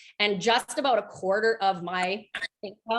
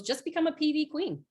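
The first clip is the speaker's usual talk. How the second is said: much higher, bright coaching push; upbeat upline; 7 semitones higher than usual. Retold or imitated. The upline coaching her through the doubt, a much higher, peppy voice. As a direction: sell it like a cheerleading mentor. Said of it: "She goes".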